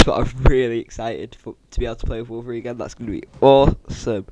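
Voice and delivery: livelier, genuinely excited. Real, not acted. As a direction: lift it, sound actually excited. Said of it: "I've said that in such a monotone voice".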